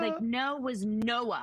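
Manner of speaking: "no" stretched into "Noah", slow; teen stretching "no" into two syllables; drawn-out no. Shown as a demonstration. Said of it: "Could you do that imitation of her".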